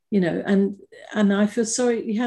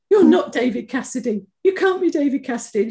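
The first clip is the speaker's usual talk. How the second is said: imitating a disbelieving fan, pitched up; mock disbelief; 5 semitones higher, 4 dB louder than usual. Mother doubting the star on the phone, mock disbelief. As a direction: protest as if it can't be true. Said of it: "she kept saying".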